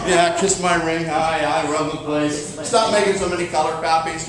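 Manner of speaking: a hint of a mob don; bossy broker. Broker bragging to an agent, lightly voiced bossy boss. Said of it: "Your broker's always like".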